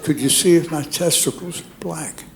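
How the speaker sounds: repeating it through the mask. Retold or imitated. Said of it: "I said".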